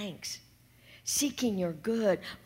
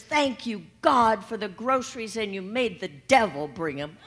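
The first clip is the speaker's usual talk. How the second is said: triumphant thanks; 6 dB louder than usual. Acted. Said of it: "And she says".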